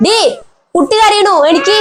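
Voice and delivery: put-on an old woman calling her daughter-in-law awake. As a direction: wake the sleeping wife. Calling to wake wife.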